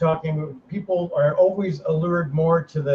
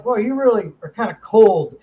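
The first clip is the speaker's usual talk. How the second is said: put-on Arkansas accent; 4 semitones higher, 5 dB louder than usual. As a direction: mimic a friend's Arkansas accent teasingly. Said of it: "He does this in his Arkansas accent".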